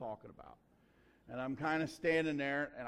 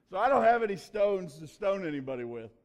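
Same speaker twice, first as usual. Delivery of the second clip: emphatic preaching; 3 semitones higher, 10 dB louder than usual. Real, not acted. Preaching point with force.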